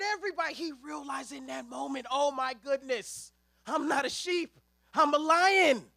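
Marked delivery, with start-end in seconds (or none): 2.1-5.9 slow start building to a loud proclamation; dawning triumph. Retold or imitated. Lambert discovering he is a lion, building to loud. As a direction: realize it, then announce it loud.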